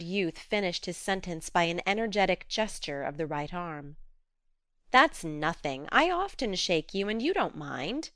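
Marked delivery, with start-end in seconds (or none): 4.9-8.1 gentle calming tone; soothing. Acted. Jo calming angry Laurie, soothing. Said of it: "said Jo soothingly".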